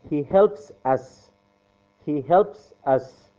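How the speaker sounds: very slow, word by word; slow drilling. Shown as a demonstration. Teacher drilling students on the verb, very slow and clear. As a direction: drill it so students can repeat. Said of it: "teacher drills sentence for class".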